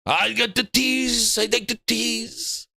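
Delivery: slow coy teasing drawl; Herman Holtz impression. Streamer mocks Herman Holtz savouring his tease, slow coy. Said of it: "but Herman".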